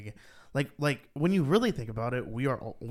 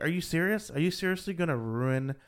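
higher and louder, incredulous; like you can't believe what you're watching; voicing his own disbelief at a stubborn driver; exasperated disbelief; 6 semitones higher, 3 dB louder than usual.

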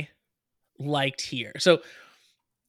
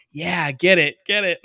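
cheering; 3 semitones higher, 5 dB louder than usual. Retold or imitated. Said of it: "I was just like".

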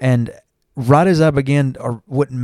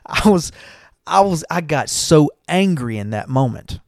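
higher, laughter still in the voice; real amusement bubbling under the words; amused, recovering from laughter; 4 semitones higher than usual. Real, not acted. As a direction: talk through the tail end of a laugh. Still amused after laughing at smack.

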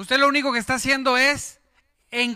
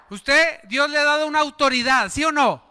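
calling out to congregation; 3 semitones higher than usual. Real, not acted. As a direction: call it out to the crowd. Preacher calls to congregation. (pregunta en voz alta a la congregación)

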